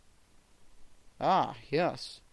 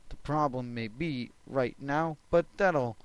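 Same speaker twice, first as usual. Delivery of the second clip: heavy breathing; 5 dB louder than usual. Real, not acted. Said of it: "I'm sorry about the breathing".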